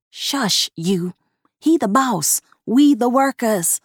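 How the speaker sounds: ordinary delivery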